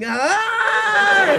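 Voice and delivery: high bright chirped greeting; chirpy hi. Retold or imitated. Greeting strangers she doesn't recognise, with a chirpy hi. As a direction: fake cheerful hi.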